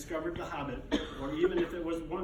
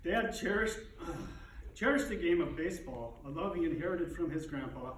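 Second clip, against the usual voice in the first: dignified grief. Real, not acted. Eulogy, pausing to compose himself.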